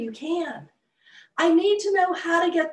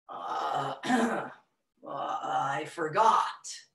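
sheepish; 9 semitones lower, much slower than usual. Acted. Elephant embarrassed, admits forgetting.

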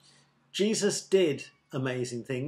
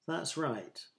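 soft, gentle confirmation; smiling approval; 8 dB quieter than usual. A narrator's reading. Jesus approving the man's answer, smiling approval. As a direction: say it softly with a smile. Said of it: "Jesus smiled".

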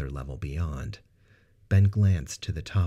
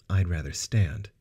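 cold. Acted. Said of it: "Sarah replied coldly".

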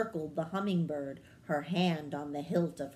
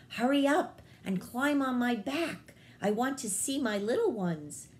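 a higher, bossy little bird voice, in a rush; impatient hummingbird; 6 semitones higher than usual. Acted. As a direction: hurry her along as a bird who wants her chicks.

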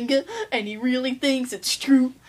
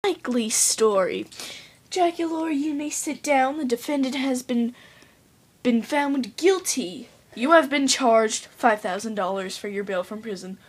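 judge voice; 2 semitones lower than usual. Acted. Plays judge delivering verdict.

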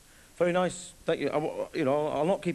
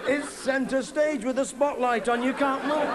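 laughing while talking; 7 semitones higher, slower than usual. Real, not acted. Laughing through embarrassing story.

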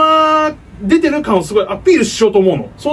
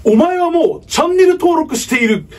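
Kenshiro catchphrase; 5 semitones higher than usual. Pretend.

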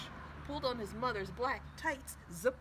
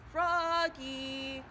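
1 teacher calling; 5 semitones higher, 7 dB louder than usual. Acted.

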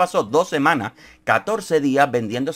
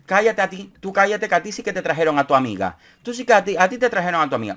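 high mock shrill row; mock yelling like a fishwife; 8 semitones higher than usual. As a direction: imitate a market-woman squabble. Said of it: "De verdulera hicieron".

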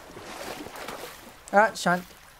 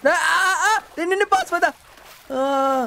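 high, scared cries begging it to stay away; frightened pleading; 9 semitones higher, much slower than usual. Real, not acted. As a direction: plead in panic as it closes in. Monster approaching, he panics. (डरकर ऊँची आवाज़ में गिड़गिड़ाना)

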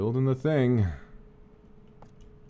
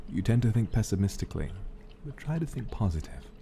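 lower, soft caring parent; gentle motherly voice; 5 semitones lower, 3 dB quieter than usual. Acted. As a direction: read it kindly, like a mother. Reads NPC letter in voice.

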